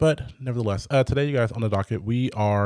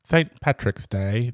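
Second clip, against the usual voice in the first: slow failed Irish accent that comes out British; attempted Irish accent; 2 semitones higher, 3 dB louder, slower than usual. Shown as a demonstration. Naming March holidays, she slips into a bad Irish accent. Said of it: "That was not an Irish accent".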